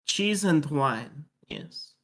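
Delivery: put-on slow French-accented listing. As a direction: savour the list in a French accent. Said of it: "said in a French accent".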